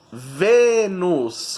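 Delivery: "Vênus" stretched on its first syllable; stress on Vênus. Shown as a demonstration. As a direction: draw out the VÊ in "Vênus". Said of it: "qual é a sílaba tônica?".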